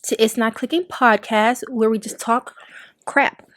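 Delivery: talking while chewing gum. Real, not acted. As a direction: gum in the mouth. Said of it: "I gotta stop chewing gum".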